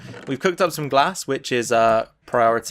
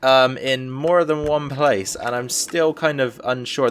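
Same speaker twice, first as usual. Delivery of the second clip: slow, hesitant thinking aloud; talking slowly; slower than usual. Real, not acted. Figuring out how to light the room, talking slowly. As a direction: draw it out while working something out. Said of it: "I'm talking so slow".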